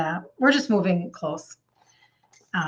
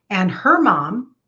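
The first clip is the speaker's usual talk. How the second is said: slow, breathy-free whisper, barely voiced; hushed whisper. Real, not acted. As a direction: drop to a slow whisper as the memory hits. Emotional memory of dying mother.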